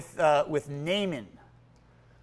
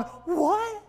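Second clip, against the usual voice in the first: much higher, loud, affronted squawk; indignant outrage; 9 semitones higher, 9 dB louder than usual. Retold or imitated. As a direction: bristle like an insulted general. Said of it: "there's Naaman going".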